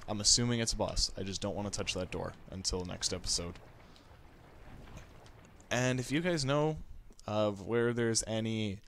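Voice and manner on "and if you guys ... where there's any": talking through hiccups; hiccuping mid-sentence. Real, not acted. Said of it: "I got the hiccups".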